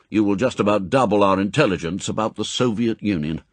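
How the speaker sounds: fast, firm briefing; M, brisk chief. Acted. Chief briefs agent on new posting, brisk and firm. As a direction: rattle off the orders. M explains mission.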